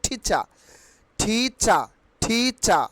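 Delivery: ঠিচা with puffed T and no R at the end; short ঠিচা, ending on an open "cha"; aspirated T, silent R. Shown as a demonstration. Teacher modelling the correct word, aspirated T, silent R. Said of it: "আমরা কি বলবো?".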